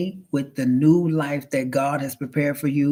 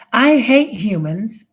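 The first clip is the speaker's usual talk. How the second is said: louder, higher, slow menace; robot hatred; 6 semitones higher, 6 dB louder, slower than usual. Acted. Rogue robot confessing its hatred of humans, slow and loud. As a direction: spit it out slowly like a rogue machine.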